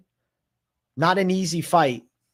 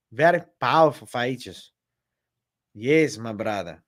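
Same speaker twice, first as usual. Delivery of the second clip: put-on Brazilian accent. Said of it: "That's a good Brazilian accent".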